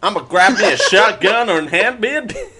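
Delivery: hammed-up American twang; American accent. Shown as a demonstration. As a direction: attempt a caricature American accent, amused. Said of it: "can you do an American accent".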